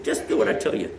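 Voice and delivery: hushed, breathy aside; retold whisper. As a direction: lean in and whisper the order. I whispered to him.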